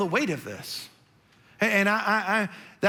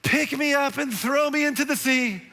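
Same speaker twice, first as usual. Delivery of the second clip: higher, grand theatrical plea; hammed-up Jonah; 5 semitones higher than usual. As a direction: play Jonah like a Shakespearean hero. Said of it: "I'm gonna just make a fool of myself".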